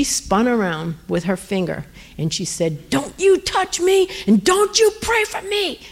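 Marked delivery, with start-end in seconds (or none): 2.9-5.8 put-on high-pitched, scolding old-lady outburst; imitated angry old woman. Old woman spinning round on a stranger who touched her, angry warning. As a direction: warn them off in a high mock-angry voice. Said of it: "And she was angry".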